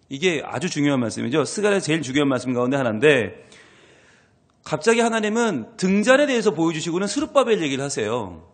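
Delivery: ordinary talk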